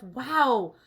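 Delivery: loud, impressed wow at a bargain; mock thrilled shopper's thought; imagined delight. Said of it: "I don't even think to myself".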